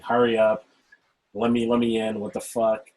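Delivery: mock angry yell. Retelling an angry drive-through customer, mild mock yelling. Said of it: "she's yelling at people in front".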